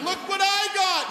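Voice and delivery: put-on high squeaky kid shouting with glee; excited kid voice. Kid running in the store, high and gleeful. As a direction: play a thrilled little kid.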